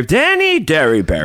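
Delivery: big theatrical name call; mock announcer. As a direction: announce the name with slow fanfare.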